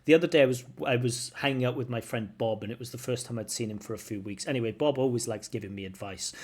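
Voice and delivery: brisk, chatty storytelling pace; quick model answer. Shown as a demonstration. Teacher demonstrating a speaking answer, quickly. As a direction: rattle through a sample exam answer. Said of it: "Let's do this very quickly".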